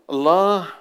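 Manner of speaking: الله called out high and loud; stress on الله. Acted. Preacher to congregation, الله called out loud. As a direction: hit الله hard, drawn out.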